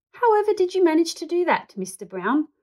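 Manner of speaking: astonished, gasp it high. Acted. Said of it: "gasped Mister Gruber".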